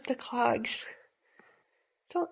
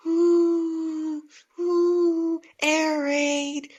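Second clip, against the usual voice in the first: alarmed; 4 semitones higher, much slower than usual. Acted. Air raid wakes the family.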